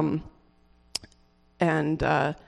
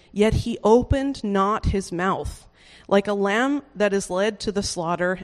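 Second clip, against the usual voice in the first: scripture reading. Acted. Reciting Isaiah fifty-three aloud.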